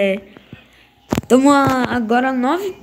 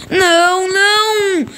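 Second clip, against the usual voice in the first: desespero; 7 semitones higher, 3 dB louder, slower than usual. Real, not acted. Perde para o Burnley.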